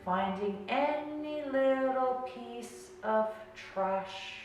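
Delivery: slow, drawn-out words with long pauses; guided meditation. Real, not acted. Coach guiding garbage men through the body, slow meditation voice. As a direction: talk them down through the body, unhurried.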